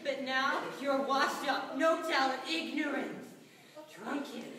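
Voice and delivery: angry rant, peaking loud on the insults; retold lash-out. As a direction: lay into him, building to a loud blast. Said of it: "I lashed out and I was like".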